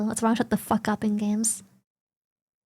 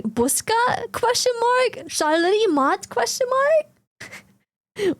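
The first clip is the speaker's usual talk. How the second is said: put-on slow halting Russian-accented question; Russian player; 9 semitones higher, much slower than usual. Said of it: "it was a Russian".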